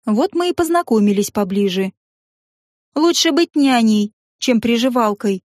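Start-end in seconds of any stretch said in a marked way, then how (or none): 2.9-5.4 icy, slow retort; cold smile. Acted. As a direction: answer coolly with a thin smile. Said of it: "холодно улыбнулась".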